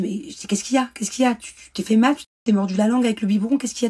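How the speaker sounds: anxious rush to check on her son; alarmed mother. Retold or imitated. Mother startled by her son's sobbing, asking anxiously.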